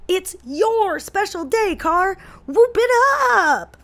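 doting mom reading. Retold or imitated. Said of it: "she sent this one out on my birthday".

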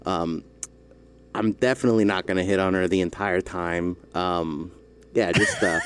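lightly voiced deadpan host; Adam Friedland impression. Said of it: "I can't hold the impression".

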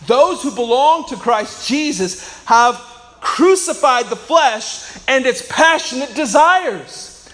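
solemn Bible reading; scripture reading. Real, not acted. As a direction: read the verse with weight.

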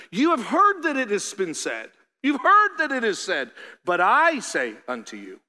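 lightly voiced preacher-Jesus declaring; authoritative Jesus. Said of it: "Jesus talks like this to the crowds".

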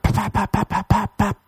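high soft repeated pap; squeaky paps. Pretend. Answering the girl's hola papi, high soft paps. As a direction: chirp pap like a bird.

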